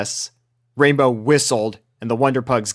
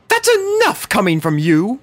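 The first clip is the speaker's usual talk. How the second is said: stern scolding; 9 semitones higher, 3 dB louder than usual. A narrator's reading. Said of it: "commanded Rarity".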